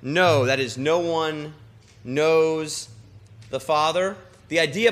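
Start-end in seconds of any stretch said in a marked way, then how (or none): 0.0-0.4 know pressed out louder; know said loud and slow; stress on know. Shown as a demonstration. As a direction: lean hard on the word know. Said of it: "in the word".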